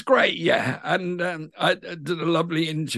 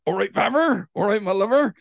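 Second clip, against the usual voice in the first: Bristol accent; 3 semitones higher, 3 dB louder, faster than usual. Shown as a demonstration. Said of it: "you got Babber in Bristol".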